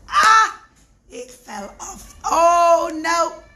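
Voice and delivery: hammed-up wail of alarm; mock dismay. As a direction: overplay the soldiers' panic. Soldiers dismayed at broken wheel.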